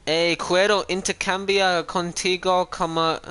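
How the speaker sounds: reading Spanish chat haltingly with an English accent; clumsy Spanish reading. Real, not acted. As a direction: stumble through the Spanish words like a non-speaker. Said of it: "I think I butchered that language".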